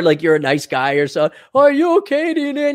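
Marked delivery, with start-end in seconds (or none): 1.5-2.7 much higher, fussing; mock concern. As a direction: overdo the worry. Mocking nice guy's concern.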